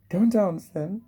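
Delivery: high, loud urging to a shy daughter; encouraging mum. Retold or imitated. Mum loudly urging little girl to dance. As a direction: cheer her on loudly. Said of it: "But the mum went".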